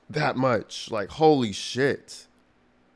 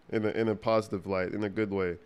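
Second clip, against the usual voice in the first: talking through a blocked nose; stuffed-up nasal voice; stuffy nose; 3 semitones lower, 5 dB quieter than usual. Real, not acted. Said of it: "I'm so stuffy".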